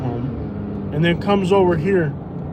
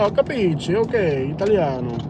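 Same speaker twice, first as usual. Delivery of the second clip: mock Italian; 3 semitones higher than usual. Driver mocks Italian accent back at passenger. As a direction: toss off a cheesy Italian accent. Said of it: "I was like".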